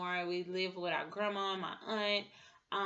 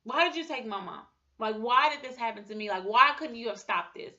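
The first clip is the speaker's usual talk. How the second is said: louder, pleading why questions; louder anguished questioning of God; retold anger at God; 3 semitones higher, 6 dB louder than usual. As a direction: demand answers from God, hurt and angry. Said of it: "being so mad at God".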